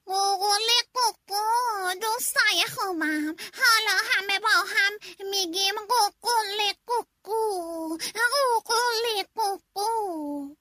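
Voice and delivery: cheerful rooster gathering his friends. Acted. Rooster inviting all friends to crow together, high. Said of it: "خروسه گفت".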